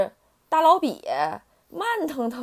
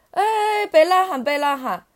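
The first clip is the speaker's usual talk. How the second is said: louder, higher mother duck voice; calling a halt; 8 semitones higher, 6 dB louder than usual. A narrator's reading. Duck correcting mistaken tadpoles, loud high protest. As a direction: break in loudly to hush the callers.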